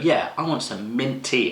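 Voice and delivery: put-on slow, lightly posh English accent ordering tea; a hint of upper-class English, drawn out; mock posh English accent. Guest at a fancy house asking for mint tea in mock posh English accent. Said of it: "I wanna sound that posh".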